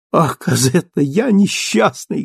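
high, slowed lament; anguished cry. Acted. Marius lamenting to Cosette, anguished. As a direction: cry out in remorse. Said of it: "говорил он".

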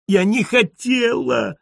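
high, slow whiny cry of denial; squirming plea. A narrator's reading. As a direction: plead high and drawn out, writhing. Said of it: "извивалась фройляйн". (высокий протяжный жалобный вскрик)

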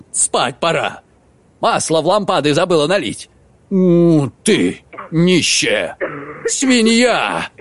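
mildly squealing nag, rushed then dragged; a hint of a petty old man squealing at his wife; squealing scold. Husband squeals abuse at his wife. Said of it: "Взвизгивая".

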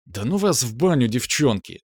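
plain reading voice

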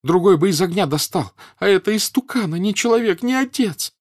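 high, loud, accusing tirade; spiteful screaming. A narrator's reading. Wife accuses husband over their child, screaming spitefully. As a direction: berate him in a shrieking rage. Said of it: "злобно закричала женщина".

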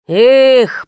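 drawn-out sigh. Acted. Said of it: "протянул папенька".

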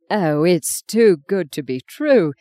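slow, breathless bitter laughter; gasping through laughter. Acted. Mother laughing bitterly at her son's news. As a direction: gasp the words out between hysterical laughs. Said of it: "she gasped".

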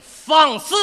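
barks it out loud as a stern father; play-acted paternal outrage, loud; angry shout. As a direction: snap at the son in mock fury. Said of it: "急了。".

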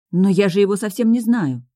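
loud, high protest; indignant. A narrator's reading. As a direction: object hotly to a friend. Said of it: "от негодования на пернатую подругу". (возмущённо, громко)

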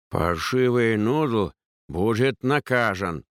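lisping, slow and preachy; slushy lisp. Acted. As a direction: lecture her through a thick lisp. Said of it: "поучительно сказал палач".

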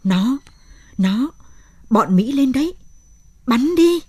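halting fevered raving that climbs to a high, loud yell; delirious raving. A narrator's reading. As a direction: stammer in fever, then shout the order to fire. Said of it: "Lão làm nhảm những lời mê sảng".

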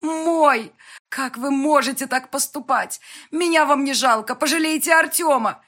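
high, loud desperate shouting; mother screaming at Yan to spare her son. A narrator's reading. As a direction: scream it at him, pleading. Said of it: "Кажется, я уже кричала".

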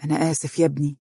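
soft, sincere apology; quiet regretful voice; apologetic. A narrator's reading. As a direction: say sorry gently. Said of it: "قائلا باعتذار".

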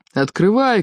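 shouting. A narrator's reading. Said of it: "кричали из-за двери".

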